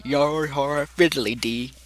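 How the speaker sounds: slow, drawn-out pirate ditty; lightly voiced pirate sing-song. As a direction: lilt it slowly like an old sea rhyme. Game master sings as pirate Foxy.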